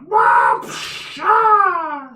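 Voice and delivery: loud mouthed impact sound effects; explosive, drawn-out combat sound effect; imitated blow noises. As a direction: belt out a big whooshing hit noise. Game master voices the last blow.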